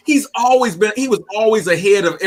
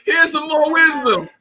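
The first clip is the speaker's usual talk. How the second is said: higher, laughing repeats; playful teasing; 8 semitones higher than usual. Real, not acted. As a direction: tease gleefully while laughing. Joking about wisdom dropping.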